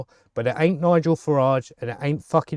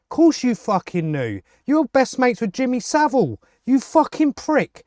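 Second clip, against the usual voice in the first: higher, angry yelled insult; angry outburst; 6 semitones higher than usual. Real, not acted. Ranting vlogger insulting the Prime Minister, angry and high. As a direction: spit the insult at him in real anger.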